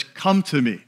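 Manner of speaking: calm, understated invitation; gently leading. Retold or imitated. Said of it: "Jesus says".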